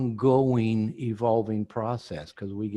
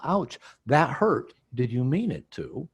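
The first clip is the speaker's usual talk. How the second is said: gentle vulnerable ouch. Shown as a demonstration. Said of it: "So if you say".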